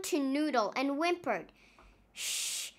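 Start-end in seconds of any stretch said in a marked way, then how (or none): 2.1-2.7 soft unvoiced shh; hushing shh. A narrator's reading. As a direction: hush them urgently. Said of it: "said Nong".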